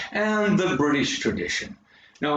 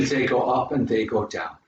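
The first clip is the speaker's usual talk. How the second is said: Irish tune, up on "up", down on "down"; lightly voiced Irish rise and fall; Irish lilt; 4 semitones lower than usual. Shown as a demonstration. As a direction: roll the pitch like an Irish speaker. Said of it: "in Ireland".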